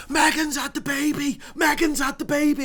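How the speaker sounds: high, loud squeal of news; thrilled mum. Retold or imitated. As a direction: shriek it like a mum who can't contain herself. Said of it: "And she goes".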